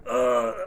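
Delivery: short dying grunt; mock groan from a knife blow; stabbed groan. Acting stabbed in the chest.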